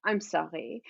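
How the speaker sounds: lightly voiced German-accented mother; offhand, indulgent motherly apology. Mother apologizing to daughter, lightly German-accented voice.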